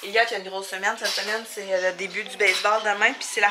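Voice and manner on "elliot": usual speaking voice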